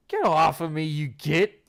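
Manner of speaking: shove-off yell; angry shout. Acted. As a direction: snap at him. Shoving the teacher off.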